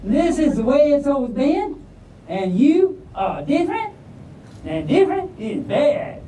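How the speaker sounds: put-on Southern-accented stink bug, high and slow. A narrator's reading. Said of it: "Why am I talking all southern?".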